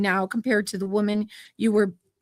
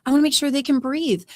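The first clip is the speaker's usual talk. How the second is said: retold inner thought; 7 semitones higher, faster than usual. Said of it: "'Cause I thought".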